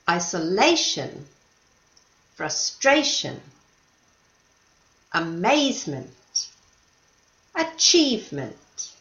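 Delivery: each word said alone, stressed syllable marked, for the class to repeat; repeat after me. Shown as a demonstration. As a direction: model each word clearly, one by one. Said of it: "Follow me".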